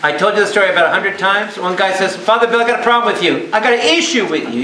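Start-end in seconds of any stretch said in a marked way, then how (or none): 2.2-4.6 higher-pitched imitation of a complainer; acted grievance in a raised voice; retold confrontation. Acts man confronting the priest.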